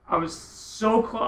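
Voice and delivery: SO stretched out long and high; emphatic. Real, not acted. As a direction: lean slowly on the word SO. Recalling near collision, amazed.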